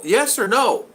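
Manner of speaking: hard-of-hearing husband, mock loud; loud demand. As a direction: call it out, demanding an answer. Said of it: "that's the reason I talk loud".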